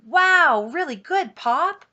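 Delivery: high, loud, wide-eyed wow; big burst of admiration; enthralled kid. A narrator's reading. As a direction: gush like an awestruck child. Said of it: "always enjoyed my father's stories".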